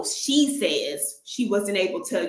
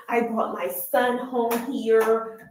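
mocking quote; slower than usual. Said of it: "always thinking that she only has one child".

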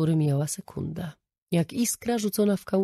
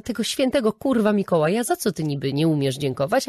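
angry retort; 4 dB louder than usual. Retold or imitated. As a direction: snap back at him in outrage. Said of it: "kontynuowała Regina".

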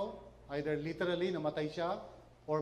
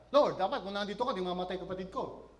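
quick, louder, resentful mock reproach; spiteful angry complaint; 3 dB louder, faster than usual. Martha reproaching Jesus for her brother's death, in a spiteful tone. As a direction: throw the words at him like a grudge. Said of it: "not in a very spiteful, angry manner".

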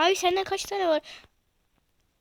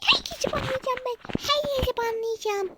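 high, strained mock-evil voice; hammed-up villain threat; 8 semitones higher than usual. Gamer wanting the ban hammer, mock villain threat. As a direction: ham it up like a cartoon tyrant. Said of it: "repeated in put-on voice".

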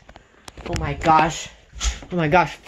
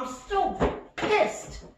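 angry whisper; 9 semitones higher, 8 dB quieter, slower than usual. Acted.

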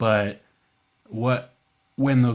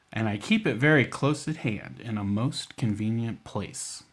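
put-on sing-song rhyme recital to kids; poem for children. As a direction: recite it like a nursery verse.

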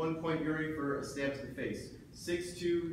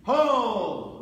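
loud, sharp call to stop; shouted command; 5 semitones higher, 9 dB louder than usual. Real, not acted. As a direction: bark the halt across the floor. Referee halting fencers.

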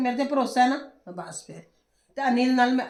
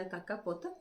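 loving coax; 2 semitones lower, 5 dB quieter than usual. Retold or imitated. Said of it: "ਅਸੀਂ ਤੈਨੂੰ ਪਿਆਰ ਨਾਲ ਪੁੱਛਣਾ".

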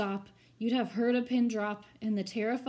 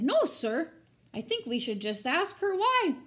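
put-on higher, earnest boy's reply; 6 semitones higher, 6 dB louder than usual. Young Herbert politely standing up to the grocer, higher boyish voice. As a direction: answer politely but firmly.

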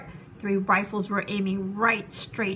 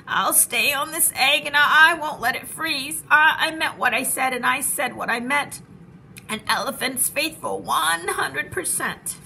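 shivering determined elephant; 3 semitones higher, 4 dB louder than usual. Acted. Cold Horton stammering vow.

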